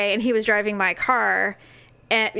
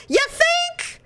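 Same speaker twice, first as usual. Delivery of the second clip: sarcastic. Retold or imitated. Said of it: "I'm like".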